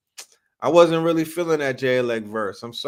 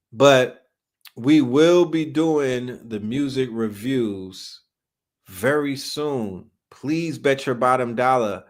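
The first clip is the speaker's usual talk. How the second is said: slow, measured announcement; formal announcement; slower than usual. Real, not acted. Host telling viewers about coming music reviews, formal announcement. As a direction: spell it out slowly and deliberately.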